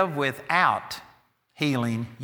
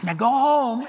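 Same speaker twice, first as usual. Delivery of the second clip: raised, firmer go home; woman ordering her poodle, a firmer go home; firmer command; 7 semitones higher than usual. Retold or imitated.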